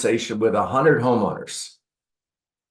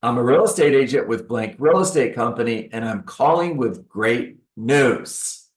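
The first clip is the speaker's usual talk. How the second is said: friendly call. Shown as a demonstration. Agent calling a homeowner like a friend, upbeat. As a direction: sound like a friend phoning. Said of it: "it's a friend call".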